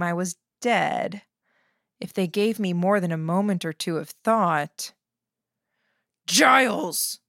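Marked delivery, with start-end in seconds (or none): 6.3-7.2 high shout; shouted name. A narrator's reading. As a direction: yell the name to summon help. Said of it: "the man who held me shouted".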